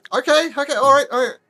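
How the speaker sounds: high, quick self-encouragement; psyching up. Acted. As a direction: talk yourself into it. Psyching himself up to jump.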